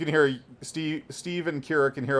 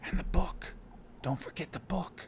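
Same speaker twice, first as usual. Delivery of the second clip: very soft, breathy, hushed whisper, very close; 3 semitones higher, 11 dB quieter than usual. Voicing a character whispering in a player's ear: whispering as Worm. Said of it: "as Worm whispers".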